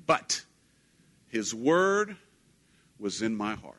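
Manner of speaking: voice cracking with emotion. Real, not acted. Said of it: "If you hear my crack in my voice".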